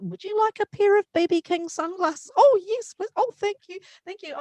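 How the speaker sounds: high, lilting voices swapping quickly; fan and star exchange. Retold or imitated. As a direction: play both star and grateful fan, pitched high. B B and fans exchange.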